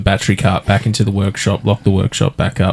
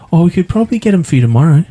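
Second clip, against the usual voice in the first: mocking the clerk; 8 semitones higher, much faster than usual. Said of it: "mocking the clerk's excuse".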